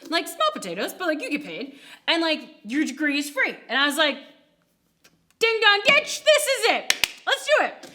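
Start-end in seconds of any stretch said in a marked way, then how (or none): 5.4-7.9 high, loud burst of excitement; big high-pitched, gung-ho cheer; excited decision. Retold or imitated. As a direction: exclaim it like you've hit the jackpot. Retells her excited decision to go.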